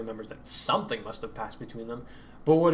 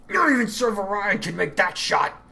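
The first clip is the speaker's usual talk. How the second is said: higher, louder, startled disbelief; grunted; 8 semitones higher, 5 dB louder than usual. Acted. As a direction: grunt out the doubt through the pain. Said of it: "he grunted".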